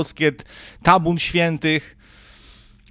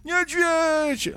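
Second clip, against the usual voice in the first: put-on high squeaky child voice, much higher; mock panicked child voice; 13 semitones higher, slower than usual. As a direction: pipe up like a frozen kid spotting a bear. Voicing paralysed children.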